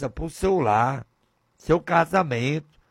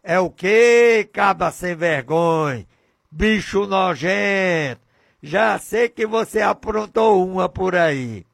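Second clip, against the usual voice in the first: suspicious scolding wife; 3 semitones higher, 4 dB louder than usual. Acted. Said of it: "Ela vai dizer".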